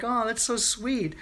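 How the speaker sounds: high, gushy little oh; gushing delight. Retold or imitated. Girlfriend gushing at boyfriend in the dream, high and delighted. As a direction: coo over how sweet he is.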